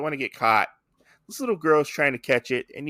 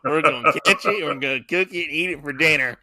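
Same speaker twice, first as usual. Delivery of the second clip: lightly hammed-up Texan; playful touch of Texan; mock Texas accent; 3 dB louder, faster than usual. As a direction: rattle it off with a Texas twang. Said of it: "my Texas accent came out there".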